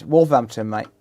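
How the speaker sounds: Black Country accent on "Wolverhampton", said as "Wolvamptun" with a flat Black Country vowel; local Wolverhampton accent. Shown as a demonstration. Streamer to chat, showing off the Black Country accent. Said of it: "Local accent".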